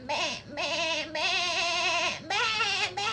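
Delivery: goat bleat. Retold or imitated. Friend bleating like a goat for the viewers. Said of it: "kalian nyuruh dia mbe-mbe ya".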